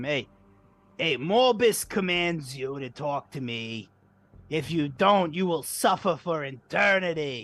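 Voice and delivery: slow, menacing, highly intimidating voice. Speaking in character to threaten a creature: most intimidating voice. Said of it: "trying my most intimidating voice I can".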